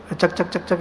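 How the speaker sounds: soft gecko chk-chk-chk; quiet little lizard clicks; gecko clicking imitation. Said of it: "એવો અવાજ આવે છે".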